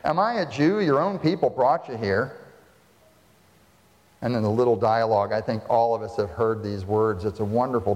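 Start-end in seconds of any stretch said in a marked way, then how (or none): 0.0-2.4 light mock derision, pitched up; derisive. Preacher acting Pilate mocking Jesus, lightly derisive. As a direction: let Pilate scoff at the prisoner. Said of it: "He says it with derision".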